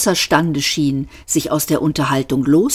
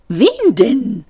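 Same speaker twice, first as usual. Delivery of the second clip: irritated, higher-pitched hiss; 8 semitones higher, 5 dB louder than usual. A narrator's reading. Insect clerk demanding whom the robot seeks, hissed. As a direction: hiss the question impatiently. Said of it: "zischte das Insekt".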